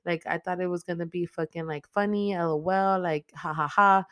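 high, sing-song fake-innocent excuse; mock the killer's lame excuse; a hammed-up airhead girl pleading; mocking whiny teen. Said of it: "she ends up, like, saying".

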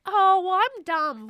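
mock ditzy high voice; high-pitched dumb voice. Shown as a demonstration. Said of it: "the high-pitched, like".

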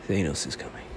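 ominous low. Acted. Repeated lower and quieter.

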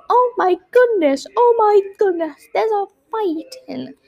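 acted little-girl panic; fretful alarm. A narrator's reading. Frightened girl wakes to a fight.

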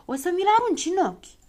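Zăpăcilă scolding the careless sand-thrower; angry snap. A narrator's reading. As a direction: scold him sharply. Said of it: "se răsti Zăpăcilă".

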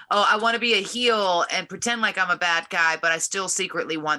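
mock the insecure wrestler; insecure heel. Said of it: "they'd rather be like".

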